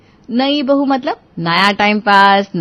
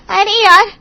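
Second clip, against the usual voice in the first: higher, louder fed-up moan; louder exasperated groan; 12 semitones higher, 7 dB louder than usual. Acted. Bahu groaning at mother-in-law's order, louder fed-up whine. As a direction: whine it out, annoyed.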